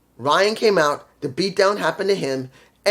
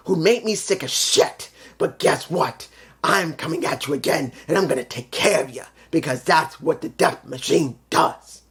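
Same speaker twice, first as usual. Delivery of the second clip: Death Machine TV impression. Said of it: "let me give it to you like this".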